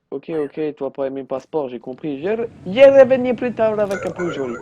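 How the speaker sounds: pleading traveller promising to return; put-on traveller voice. Traveller voiced in broken French. (voyageur qui baragouine, finit beaucoup plus aigu et fort)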